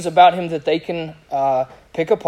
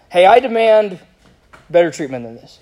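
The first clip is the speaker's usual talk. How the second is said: mock demanding. Preacher acting how Paul did not respond, mock demanding. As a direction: push it like an indignant demand. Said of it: "Paul's not like".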